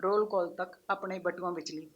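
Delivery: measured recital with pauses, each line falling away; poem recitation. Acted. Poet reciting hostel girls' evening stroll to an audience, measured poem recitation. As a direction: recite it line by line, letting the endings drop.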